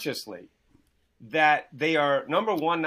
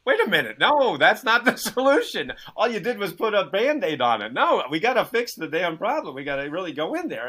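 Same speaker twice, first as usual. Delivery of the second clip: fed-up protest; 5 semitones higher, 5 dB louder than usual. Retold or imitated.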